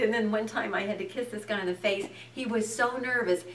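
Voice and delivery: normal talking voice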